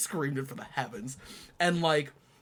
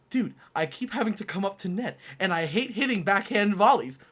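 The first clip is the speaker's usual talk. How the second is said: complaining; 6 semitones higher, 4 dB louder than usual. Retold or imitated. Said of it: "He was like".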